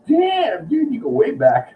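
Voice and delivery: high, impressed exclamation; amazed. Retold or imitated. Bassist marvelling that the clerk remembers him, high amazed blurt. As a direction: blurt it out, genuinely floored.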